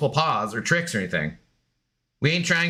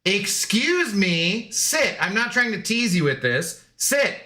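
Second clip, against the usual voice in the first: stern command; 4 semitones higher, slower than usual. Real, not acted. Commanding the dog to sit.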